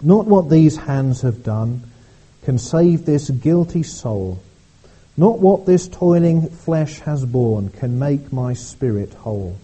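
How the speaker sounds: slow, solemn recital of verses; hymn reading. Acted. Pastor reading hymn verses to the congregation, slow and solemn. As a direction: read each line deliberately, like a hymn.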